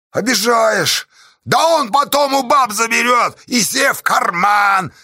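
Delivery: high, loud inciting shout; rabble-rousing. A narrator's reading. Pozdey inciting the people against Astasha, rousing shout. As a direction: whip the crowd up. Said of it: "подогревал народ Поздей".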